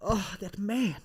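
put-on offended mum voice; disapproving mum. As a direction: tut and fret like a scandalised mother. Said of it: "some mum out there going like".

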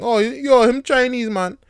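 high, loud Jamaican patois exclamation; mock Jamaican patois, loud; Jamaican relatives. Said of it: "and they think".

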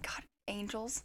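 hushed whispered awe; awed whisper. Retold or imitated. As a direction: breathe it in reverent disbelief. Awed aside about proper family.

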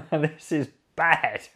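loud, laughing mock alarm; alarmed whoa. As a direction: play the tribes' shocked reaction for a laugh. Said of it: "and they're like".

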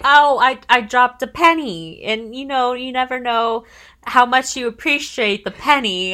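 hammed-up nervous penny rant; nervous rambling. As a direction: babble nervously about the penny. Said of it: "she's like".

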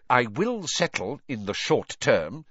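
mildly impatient authority; firm, with a slight edge; bite of impatience. Acted. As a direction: press the point with restrained impatience. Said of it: "with a bite of impatience in his voice".

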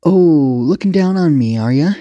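slow, high, drawn-out menace; swooping, threatening challenge; hissed taunt. Acted. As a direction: stretch it out, loud and affronted. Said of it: "she hissed".

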